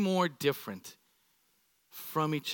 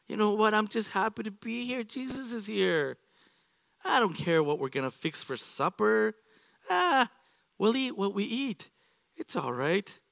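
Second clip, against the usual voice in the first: breezy Mary; 3 semitones higher than usual. Retold or imitated. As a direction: float along without a care. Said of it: "Mary's like".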